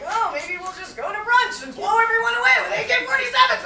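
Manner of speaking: high, loud, escalating excitement; frantic suggestion. Acted. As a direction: build to a hammed-up high-pitched outburst.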